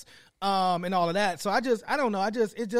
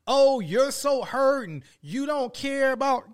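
mocking whine; 5 semitones higher, slower than usual. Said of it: "But this crying and".

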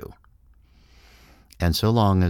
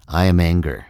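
"am" punched, much louder; mock angry declaration; 6 dB louder than usual. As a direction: slam down the words like a verdict. Mind declaring its anger.

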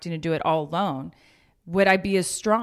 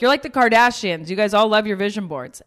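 teasing onlooker; 2 semitones higher, 4 dB louder than usual. Retold or imitated. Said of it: "They're like".

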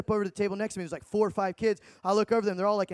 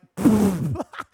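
mock burst of laughter; 4 dB louder than usual. Scoffs at Satan worship claim.

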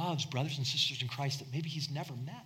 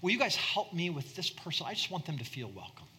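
eager, slightly higher imitation of Pastor Ike; imitating Pastor Ike; 4 semitones higher than usual. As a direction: lightly voice Pastor Ike asking for help. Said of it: "he'll talk like this".

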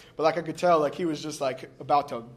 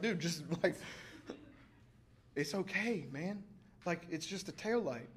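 soft, easygoing reassurance; reassuring; 12 dB quieter than usual. Retold or imitated. Truck owner to apologetic driver who cracked his taillight, soft reassurance.

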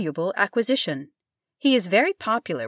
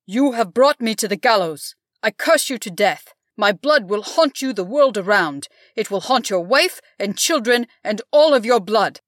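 furious shouted curse, louder; laying a curse; 2 semitones higher, 7 dB louder than usual. A narrator's reading. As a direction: hurl a curse at him in fury. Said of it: "he shouted".

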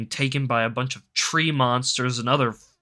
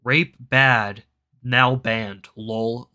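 mock blunt summary; 4 dB louder, much slower than usual. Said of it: "All it should really say is".

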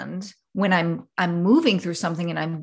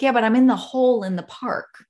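higher mock insistence; lightly acted frustration; exasperated caller; 5 semitones higher than usual. You insisting to mom on the phone, higher and exasperated. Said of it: "you're like".

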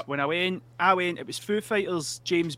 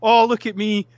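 higher, louder mock Australian backpacker; scrounging Australian; 4 semitones higher, 5 dB louder than usual. Penniless Australian cadging from campers, hammed-up pleading. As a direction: lightly play a cadging Australian, pitched up. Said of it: "I'm an Australian at Tea in the Park".

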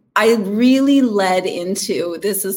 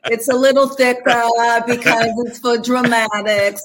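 thick Brooklyn accent, a bit higher; 3 semitones higher than usual. Shown as a demonstration. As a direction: lay on the Brooklyn accent for drama. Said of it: "could you do a, a Brooklyn accent for me".

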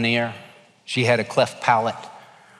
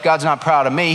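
mock doubt, "God's not proud of me" said flatter; doubting objection; 4 dB louder than usual. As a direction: brush it off like a skeptic. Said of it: "Oh no, Jeff".

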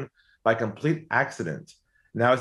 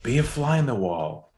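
lightly voiced tempting inner voice. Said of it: "a voice inside of me said".

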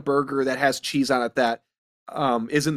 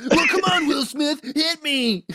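mock dare; 10 semitones higher than usual. Daring mock-Chris Rock line.

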